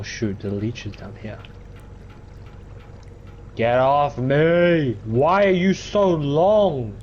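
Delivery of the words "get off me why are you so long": exasperated whine. Real, not acted. Leech clinging to character.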